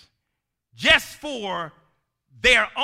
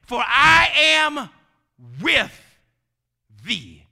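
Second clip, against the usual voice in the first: booming shout; 2 semitones higher, 7 dB louder, slower than usual. Acted. Preacher booming God's promise.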